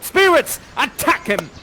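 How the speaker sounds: high, loud command, falling on the order; attack order. Acted. Prospero sends spirits at Ferdinand, commanding call. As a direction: launch the helpers into battle.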